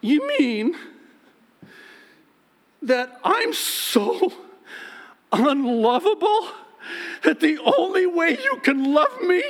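high, loud, tearful wounded wife; wife to husband, high tearful hurt outrage. Retold or imitated. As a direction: voice the offended wife close to tears. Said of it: "she's looking at me like".

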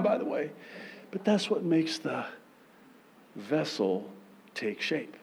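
ordinary talk, nothing marked

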